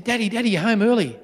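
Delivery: put-on a touch of boyish happiness; happy little boy. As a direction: greet Dad with mild childlike delight. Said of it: "he was so happy".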